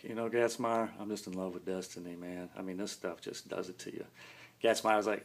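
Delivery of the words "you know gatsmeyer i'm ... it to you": soft, dreamy, drugged murmur; drugged euphoria. Retold or imitated. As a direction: drift off lovestruck on painkillers. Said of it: "and then it's euphoria".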